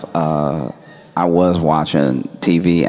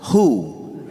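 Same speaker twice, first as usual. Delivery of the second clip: high-pitched "Who?"; retold bewildered question; baffled; 6 semitones higher than usual. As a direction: ask it in disbelief, starting high. Retold baffled reply by text.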